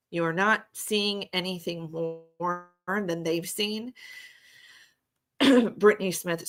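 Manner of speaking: strained, failing voice; losing voice. Real, not acted. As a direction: talk through a tired voice. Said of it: "I'm kinda losing my voice".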